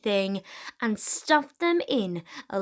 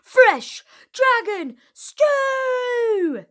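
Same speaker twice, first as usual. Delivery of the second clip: loud, high, slow triumphant shout; cried out; 13 semitones higher, 9 dB louder, much slower than usual. Acted. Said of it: "cried the Vikings".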